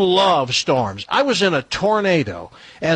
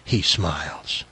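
low, measured story narration; novel read-aloud; 6 semitones lower than usual. A narrator's reading. Host reading a racy novel to co-hosts, measured narration. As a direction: read the steamy passage out evenly.

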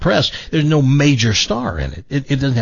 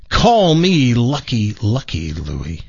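emphatic punchline; slower than usual. Acted. Joke character's slow, proud punchline.

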